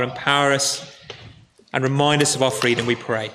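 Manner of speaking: calm, steady pastoral prayer; a gentle closing prayer. Acted. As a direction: pray for the congregation, unhurried.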